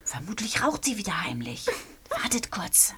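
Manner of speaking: hushed whisper. Acted. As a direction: whisper so no one wakes. Heimliches Flüstern. (flüsternd)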